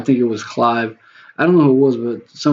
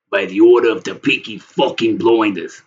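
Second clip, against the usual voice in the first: put-on Cockney accent; growing emphasis in a mock Cockney gangster accent; Peaky Blinders. Shown as a demonstration. Streamer showing he can talk Cockney, Cockney accent. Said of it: "If I talk Cockney".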